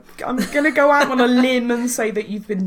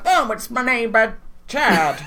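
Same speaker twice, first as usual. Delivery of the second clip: put-on Canadian accent; 3 semitones higher than usual. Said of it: "in my best Canadian accent".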